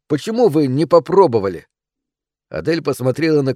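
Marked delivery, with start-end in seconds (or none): 0.1-1.7 put-on higher, louder child's demand; protesting little boy. A narrator's reading. Son asking his parents why they didn't try, indignant. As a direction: demand an answer as an upset boy. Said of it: "сказал Сэм".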